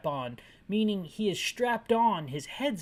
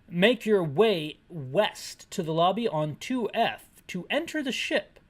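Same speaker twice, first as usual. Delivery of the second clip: slow, measured message reading; reading out orders; slower than usual. Acted. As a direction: read the order out deliberately.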